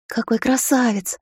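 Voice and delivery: reverent exclamation. Acted. Sister admires the broken staff, slow and awed. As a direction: breathe it out in awe at the staff. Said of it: "благоговейно воскликнула она".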